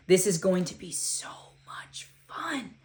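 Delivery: breathy whisper to herself. Acted. Girl on first day, whispering to herself. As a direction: whisper it to steady the nerves. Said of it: "she whispered to herself".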